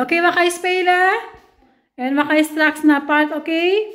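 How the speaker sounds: high, loud, lilting questions; loud caregiver singsong, rising at the end. Real, not acted. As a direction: pitch it way up for a little one. Asking the child to play, go park.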